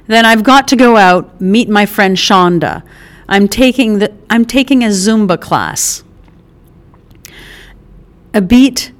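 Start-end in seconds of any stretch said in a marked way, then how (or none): 0.1-6.0 a brash mother jolted awake at her door, then all arms; Mickey, startled mom. Acted. Mother surprised by her son's visit, loud and delighted.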